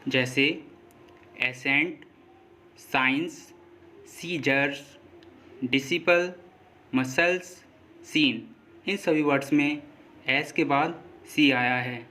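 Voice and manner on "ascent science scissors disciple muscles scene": एसेंट, साइंस, सीजर्स, डिसिपल, मसल्स, सीन with only an S sound where SC is written; silent C. Shown as a demonstration. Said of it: "silent होगा". (एसेंट, साइंस, सीजर्स, डिसिपल, मसल्स, सीन में एस के बाद सी silent)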